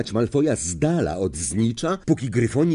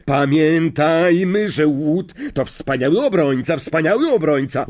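announcing; 5 semitones higher, 3 dB louder than usual. Acted. Lee to the crowd, proud announcement. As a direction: hype the keeper. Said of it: "oznajmił Lee tłumowi".

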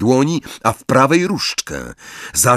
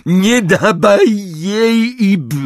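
much higher, slow desperate roar; Neville roaring; 10 semitones higher, 3 dB louder, much slower than usual. A narrator's reading. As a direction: scream the warning. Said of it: "ryknął Neville". (rozpaczliwy, wysoki ryk Neville'a)

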